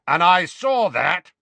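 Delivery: irritable. Acted. Moody scolding the witch, irritable. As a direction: catch her rolling her eyes. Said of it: "he added irritably".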